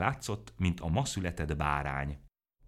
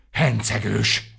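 slow, drawn-out bellow, much louder; roaring insult; 5 semitones higher, 11 dB louder, much slower than usual. A narrator's reading. Vacska Mati roaring an insult at Mikka Makka, slow loud bellow. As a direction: yell the word out long and hard. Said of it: "ordította Vacska Mati".

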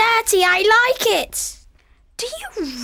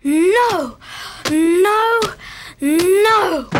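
defiant no; much slower than usual. Acted. Child refuses loudly.

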